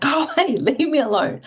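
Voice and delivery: annoyed brush-off. Retold or imitated. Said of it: "I'm just like".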